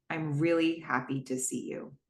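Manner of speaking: genuine. Retold or imitated. Tom telling Cam in the diner, soft and sincere. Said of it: "Tom says genuinely".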